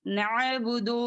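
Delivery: नअबुदु with ain squeezed in the throat after na; correct throat ain. Shown as a demonstration. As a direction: sound the throat consonant in नअबुदु. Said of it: "नहीं".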